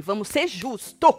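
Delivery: slow, emphatic plea for fairness; measured appeal. Real, not acted. Host weighing who mentioned Acre, slow measured appeal. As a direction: spell it out slowly and firmly.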